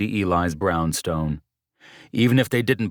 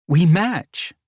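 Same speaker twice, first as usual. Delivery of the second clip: little laugh; 12 semitones higher, 6 dB louder than usual. A narrator's reading. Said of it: "said with a little laugh".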